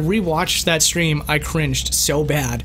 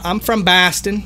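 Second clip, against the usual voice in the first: terrible Boston impression; 3 semitones higher than usual. Streamer jokingly claims to be from Boston, terrible Boston accent. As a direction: draw out a hammy fake Boston accent. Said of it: "terrible impression".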